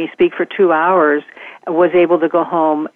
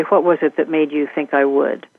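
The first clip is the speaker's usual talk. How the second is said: gentle falling question. Shown as a demonstration. Speaker shows asking a friend or child about intention, gently. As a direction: let "think I would" settle downward gently. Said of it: "always my voice tone comes down and, and it's gentle".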